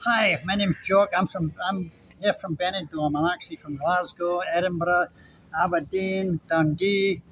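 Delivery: a lightly put-on Scottish accent, imitating a Scot on holiday; a hammed-up Scottish tourist introducing himself; mock Scottish accent. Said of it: "give it a shot with a Scottish accent".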